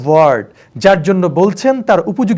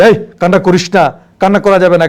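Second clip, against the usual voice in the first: harsh scolding; 5 dB louder than usual. Shown as a demonstration. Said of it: "এটা কি এভাবে বলি".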